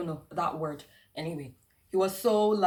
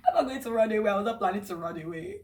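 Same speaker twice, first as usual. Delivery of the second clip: laughing protest; 4 semitones higher, 4 dB louder, faster than usual. Real, not acted. Laughing protest after mock wail.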